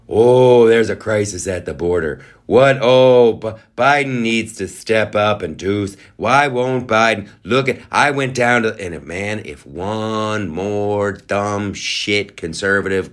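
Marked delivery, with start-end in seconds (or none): 0.1-8.8 mock politician. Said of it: "talking about".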